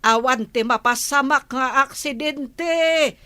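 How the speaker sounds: stern mother raising her voice at her son; scolding mother. Acted. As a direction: lay into your son for his carelessness. Mother scolding son about accident.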